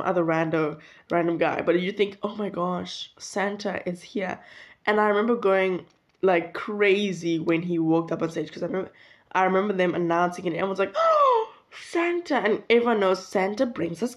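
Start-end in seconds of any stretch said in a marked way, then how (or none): 2.2-4.4 hushed awe. Retold or imitated. Child in awe of Santa. 10.9-12.4 mock childlike delight, very high; high excited gasp. Everyone reacting to Santa.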